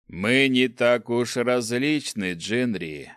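slow, sneering dark ruler; lightly voiced evil emperor.

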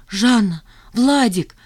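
plain reading voice

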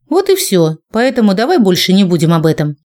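cold mechanical robot tone; metallic voice. Acted. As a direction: speak like a flat metal machine. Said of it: "изобразила металлический голос".

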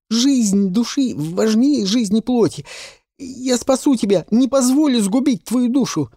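put-on high, loud impassioned boyish vow; boy vowing to save her soul; fervent boy. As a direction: swear it fiercely as a boy.

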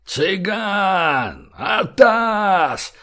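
high alarm yell over a horn, last words dragged out; Bolshoy leans out of the car and hollers to the gypsy; mighty yell. A narrator's reading. Громкий крик тревоги. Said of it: "заорал".

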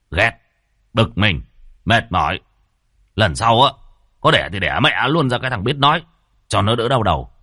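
irritated husband venting; fed-up grumbling. Acted. Husband complains about crying baby, fed up. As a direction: complain crossly, with a touch of force.

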